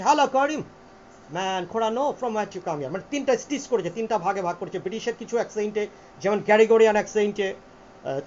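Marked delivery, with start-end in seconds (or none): 0.0-2.9 British accent, "from where you" run together; a second British style with linked "where you"; another British accent style. Shown as a demonstration. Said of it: "আর একটা হচ্ছে".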